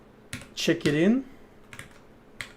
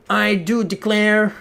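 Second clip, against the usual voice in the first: put-on Southern accent; 4 semitones higher than usual. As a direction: ham up a Southern American belle. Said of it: "the I do declare Southern American accent".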